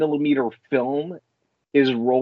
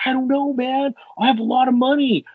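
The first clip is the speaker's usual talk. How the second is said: much higher, quick careless shrug; a hint of a spoiled rich guy; mock rich guy shrug; 10 semitones higher than usual. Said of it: "He's like".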